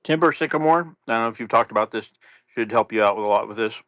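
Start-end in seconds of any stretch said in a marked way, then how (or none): 1.1-3.8 chewing gum while talking; mouth full. Real, not acted. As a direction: talk around a wad of gum. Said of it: "Are you eating?".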